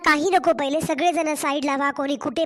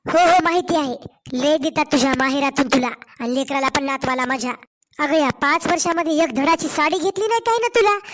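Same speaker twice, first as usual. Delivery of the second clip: taunting mother-in-law. Acted. Mother-in-law mocking the poor gifts from the daughter-in-law's family, sneering.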